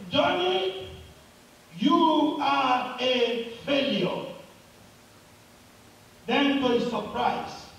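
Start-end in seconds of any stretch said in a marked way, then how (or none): 0.1-4.3 mild mock yell, high on the name, drawn out; top of his voice. Boy cries out on the mountain, mildly acted yell. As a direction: call it out slowly, name pitched high. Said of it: "on the top of his voice said".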